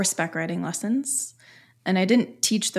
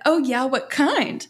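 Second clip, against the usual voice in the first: excited; 6 semitones higher, 4 dB louder, slower than usual. Retold or imitated. Acted excited reply.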